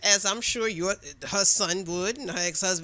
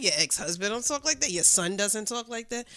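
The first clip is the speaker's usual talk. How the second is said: raised pitch, emphatic challenge; retold confrontation; 3 semitones higher, 5 dB louder than usual. Woman confronting coworker who excused men's talk, emphatic challenge. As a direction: drive each point home, pitched up.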